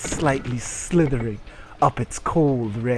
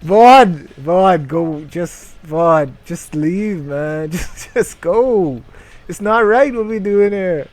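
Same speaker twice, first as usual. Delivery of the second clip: high, loud, laughing role voice; comic character bit; 8 semitones higher, 12 dB louder than usual. Acted. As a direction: ham up a nervous thief. Improvised comic scene, characters.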